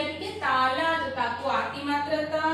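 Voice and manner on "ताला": ताला with both aa vowels held, rising at the end; long vowels. Shown as a demonstration. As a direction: stretch ताला, lifting the last syllable. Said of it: "दोनों को हमने long pronounce किया".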